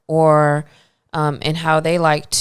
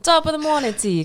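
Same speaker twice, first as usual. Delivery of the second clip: a terrible, higher mock Irish greeting; lightly hammed-up Irish brogue; joking Irish "top of the morning"; bad Irish accent; 11 semitones higher, faster than usual. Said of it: "Ooh, that was terrible".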